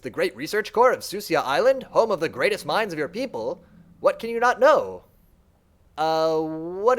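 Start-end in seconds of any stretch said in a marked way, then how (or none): 0.0-5.0 lightly voiced creature, mildly incredulous; a lightly voiced mind marvels at the Shaper's ignorance; puzzled servant mind. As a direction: wonder how they could forget.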